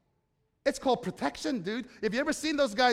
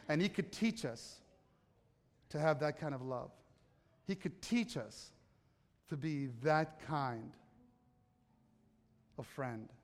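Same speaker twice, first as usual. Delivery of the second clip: soft close; 6 semitones lower, 8 dB quieter than usual. Real, not acted. Soft closing over music.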